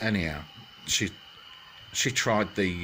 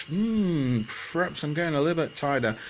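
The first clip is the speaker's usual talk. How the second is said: Goldilocks musing; 5 semitones higher than usual. Acted. Goldilocks thinks aloud in the story.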